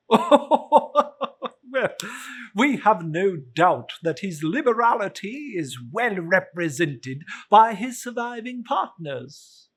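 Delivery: high, loud, jovial gentleman voice; portly gentleman. Acted. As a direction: play the cheerful charity collector, bowing.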